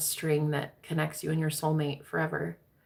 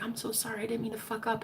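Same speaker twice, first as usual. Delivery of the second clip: mock apology; 4 semitones higher, 9 dB quieter, faster than usual. Mocking over-apologetic men.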